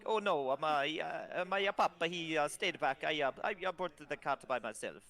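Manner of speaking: flustered lad admitting his papa stayed back; nervous young voice. Acted. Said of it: "Warlio's like".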